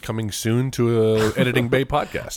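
slow announcer read; mock trailer tagline. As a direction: drag it out like a coming-soon promo.

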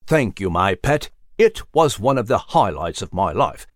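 fond old gentleman thanking his pet, lightly voiced; gentle old mouse. Nigel voiced in story.

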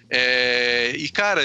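ordinary talk

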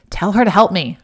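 loud, insistent demand for help; emphatic command. Retold or imitated. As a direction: Martha ordering Jesus to make her sister help, loud and emphatic. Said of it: "she was very emphatic by this time".

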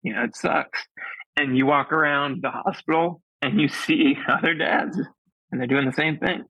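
real tears held back as he talks; getting emotional. Real, not acted. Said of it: "I'm gonna get emotional".

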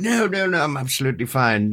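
stoned man bluffing in an English lord voice. Retold or imitated. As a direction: put on a lordly accent to hide being stoned. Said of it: "turned into an English lord".

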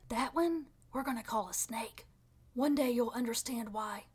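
hushed divine whisper. Pretend. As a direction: breathe it like a secret from God. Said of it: "God was there whispering".

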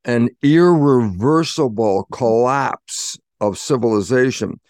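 IRREVERSIBLE drawn out slowly, each part weighted; emphatic stress. Real, not acted. Speaker warning an audience of civilization's collapse, emphatic stress on irreversible. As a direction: stretch out "irreversible" with deliberate weight. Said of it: "here's the emphasis".

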